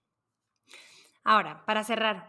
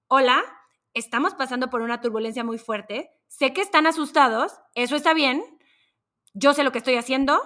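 calm pilot. Retold or imitated. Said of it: "el piloto dice".

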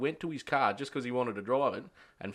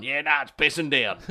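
phone excuse; 5 dB louder than usual. Retold or imitated. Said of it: "he's on the phone to the office going".

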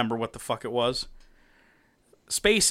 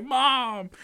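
mock anguished high cry; hammed-up wail for a parent; Batman; 10 semitones higher than usual. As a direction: call out high, drawing out the horror. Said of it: "He's like".

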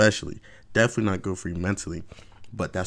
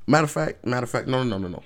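sudden change of mind; 4 semitones higher, faster than usual. Real, not acted. Vlogger reverses himself, emphatic no. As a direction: stop yourself mid-thought. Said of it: "self-correcting".

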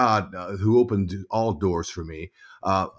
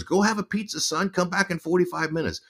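high-pitched imitation of mom; bossy mom; 8 semitones higher than usual. Mom sending son out for pizza, high directive voice. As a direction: imitate mother sending her boy off. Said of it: "She goes".

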